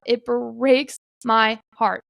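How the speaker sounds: slow, heavy with emotion; getting emotional. Real, not acted. Telling listeners how the loss broke her heart, slowly and emotionally. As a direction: let the feeling catch you mid-sentence. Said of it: "Sorry, I'm getting a little emotional".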